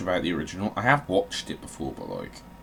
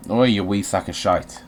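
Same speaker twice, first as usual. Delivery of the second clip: loud insult; 7 dB louder than usual. Real, not acted. Yelling insult at game.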